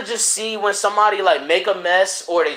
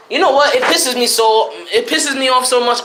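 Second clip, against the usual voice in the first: pissed off; 5 semitones higher, 3 dB louder than usual. Real, not acted. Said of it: "I'm so pissed off".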